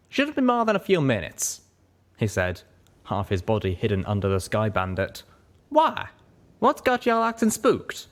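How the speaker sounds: busy mechanic, casual then puzzled; a lightly voiced southern stallion. Calamity voiced, higher.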